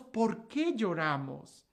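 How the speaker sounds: slow, weighed question. Shown as a demonstration. Preacher repeats the question to the crowd, slow. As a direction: let it sink in slowly.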